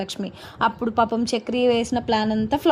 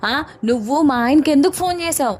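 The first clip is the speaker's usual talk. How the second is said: a raised, higher mock yell at the caller; jealous wife snapping down the phone; hammed-up jealous shout; shouting accusation; 4 semitones higher, 4 dB louder than usual. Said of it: "గట్టిగా అరుస్తుంది".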